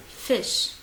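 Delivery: FISH said as in English, short vowel; teacher's English model "fish"; English pronunciation. Shown as a demonstration. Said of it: "En anglais, on le prononce".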